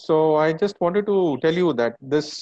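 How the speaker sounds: speaking through a face mask; muffled voice behind a mask. Real, not acted. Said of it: "my voice will be a bit muffled".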